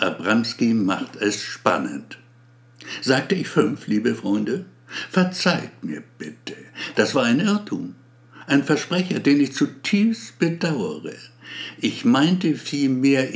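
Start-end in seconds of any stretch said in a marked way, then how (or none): 3.0-13.3 pompous speech. Acted. Abramski's speech to staff.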